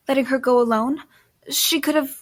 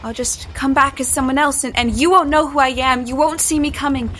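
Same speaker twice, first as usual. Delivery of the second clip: louder, pushing back hard; defiant threat; 2 semitones higher, 4 dB louder than usual. Acted. Gripped by Jesse, she threatens him back, loud and defiant. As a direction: throw the threat right in his face.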